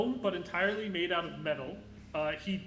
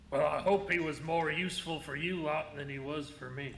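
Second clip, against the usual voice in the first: gnome cowboy; 2 semitones lower than usual. Acted.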